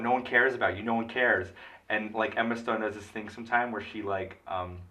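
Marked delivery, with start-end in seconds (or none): 0.0-1.5 retold yell. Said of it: "yells at Michael Keaton".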